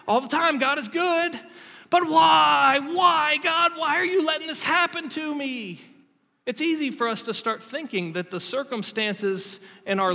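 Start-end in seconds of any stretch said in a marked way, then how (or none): 0.0-1.4 mock cheerful praise. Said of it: "when things are great, it's like". 1.9-5.8 mock anguished wail. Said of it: "it's like".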